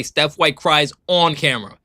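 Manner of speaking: slow line with "on" punched; stress on "on". Shown as a demonstration. Streamer repeating what the player made sure to say, stress on "on". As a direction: lean into "on" before camera. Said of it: "Kelsey Mitchell stressed the word on".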